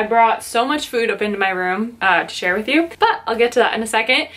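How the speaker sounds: huffing and puffing between words; out of breath. Real, not acted. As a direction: talk while still winded from the stairs. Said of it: "huffing and puffing".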